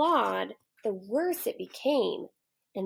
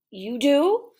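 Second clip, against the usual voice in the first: loud, higher surprised question; surprised lion; 5 semitones higher, 7 dB louder than usual. Acted. Lion surprised the boy has a comb, loud hopeful question. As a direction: perk up with hope.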